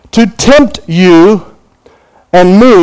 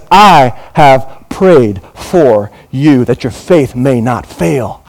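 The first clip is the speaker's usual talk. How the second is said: Jesus's tender promise; 4 semitones lower, much slower than usual. Acted. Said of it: "Jesus says".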